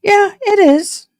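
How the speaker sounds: emphatic agreement. Real, not acted. Agreeing with viewer.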